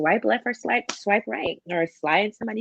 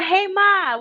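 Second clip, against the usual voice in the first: much higher and louder, calling out; a playful catcall; excited catcall; 11 semitones higher, 6 dB louder than usual. Real, not acted. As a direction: shout a playful hey.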